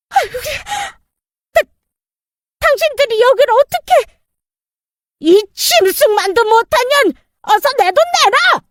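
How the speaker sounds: high, shrill-free panicked crying out; panicked outcry. Acted. Cornered stepmother cries out at her creditors, panicked. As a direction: caught off guard and scrambling.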